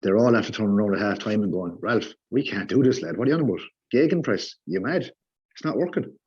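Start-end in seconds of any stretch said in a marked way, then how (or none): 1.8-6.2 imitating baffled players; players' mock protest. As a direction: protest like exasperated players questioning the boss. Acting out players protesting to manager.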